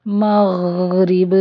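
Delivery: مغرب with the غ dragged out too long; مغرب said slowly, غ held too long; wrong stretched ghain. Shown as a demonstration. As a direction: overstretch the غ in مغرب. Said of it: "دونوں طرح سے غلط ہے".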